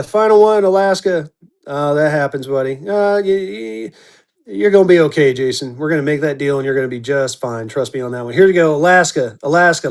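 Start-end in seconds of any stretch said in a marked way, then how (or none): 1.7-8.3 reassuring. Real, not acted. Reassuring a losing bidder Jason.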